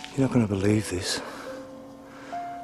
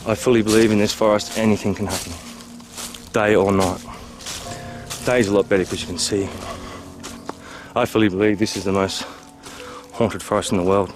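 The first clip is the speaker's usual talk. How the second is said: intense; 6 dB louder than usual. Real, not acted. Narrated vlog, loud intense.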